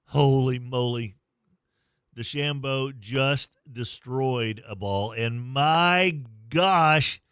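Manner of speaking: excited play-by-play. Real, not acted. Live call of huge drive.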